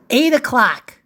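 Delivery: punchy call of the hour; crisp announced clock time; time announcement. Acted. Calls out story time.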